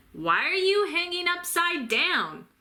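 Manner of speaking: a curious creature calls up; high creature voice. A narrator's reading. Creature questions the bat.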